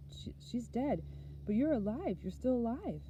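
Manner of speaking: high, stammered start rising into elation; overwrought relief. A narrator's reading. Boy telling father he's alive though sister is dead, overwrought. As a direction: pitch it high, swept up in frantic relief.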